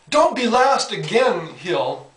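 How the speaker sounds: half-hearted holler, drawn out; mock coach yell. Coach yelling at his last-place runner, mock yell. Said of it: "yelled at the top of his lungs".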